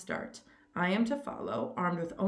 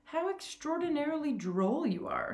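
amused; 9 semitones higher than usual. A narrator's reading. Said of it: "Laughter shook the general".

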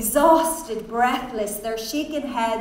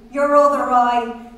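giggling; 8 dB louder than usual. A narrator's reading. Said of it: "In a giggling peal".

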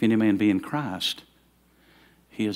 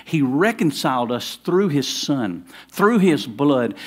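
emphatic; 4 semitones higher, 5 dB louder, slower than usual. Real, not acted. Building sermon emphasis.

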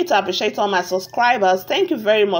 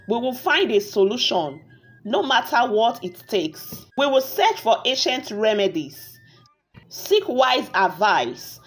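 story narration. A narrator's reading. Narrator tells viewers a tale of a wicked witch, measured storytelling. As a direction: narrate a village fairy tale, unhurried.

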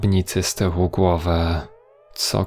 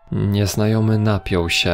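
ordinary delivery

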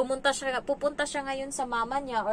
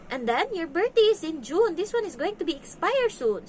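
put-on high, lilting nanny-to-kid voice; explaining to a child; 7 semitones higher than usual. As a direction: gently spell it out for a little one, pitched up. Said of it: "Sabi ko ganun sa kanya".

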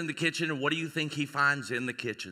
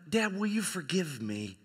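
soft plea fading to a whisper; hushed plea; 6 dB quieter than usual. Acted. Daughter asks dad's forgiveness at bedside, fading to whisper. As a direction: let the acted plea die away quietly.

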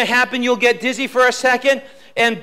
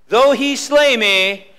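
preached scripture recitation; 2 semitones lower than usual. Shown as a demonstration. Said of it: "One more time".

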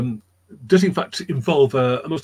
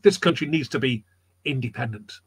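lightly acted reply, dropping softer at the end; agreeing recruit; 4 dB quieter than usual. Creasap answering Washington's call, quietly agreeing. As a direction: echo the leader, falling away quietly. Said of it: "I will join you".

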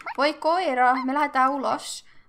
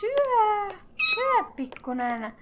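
coaxing pet voice; 9 semitones higher, much slower than usual. Real, not acted. Coaxing her game pet to eat.

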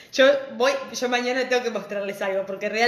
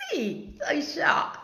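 whisper; 5 semitones higher, 4 dB quieter, much slower than usual. Pretend. Playful reply to a star-struck fan.

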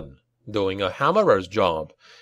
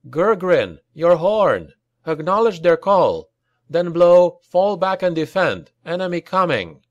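higher, louder battle commands; raised-voice commander, pitched up; barked orders; 6 semitones higher, 4 dB louder than usual. A narrator's reading. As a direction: fire off orders over the fighting. Leader shouts orders to hornblower.

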